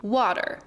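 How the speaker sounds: "Water" with the T as a soft D; flap T. Shown as a demonstration. Teacher giving examples, "Water" with flapped T. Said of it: "pronounce the T or double T as a soft D".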